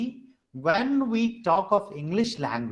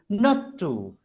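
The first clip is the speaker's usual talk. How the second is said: "not to" with the weight on "to"; "to" stressed, "not" lighter. Shown as a demonstration. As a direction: lean on "to" after a lighter "not". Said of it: "To has more stress".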